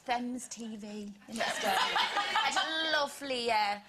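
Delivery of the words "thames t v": "Thames" with a th as in "thin", drawn out slowly; mispronounced Thames. Retold or imitated. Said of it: "it's always the Thames".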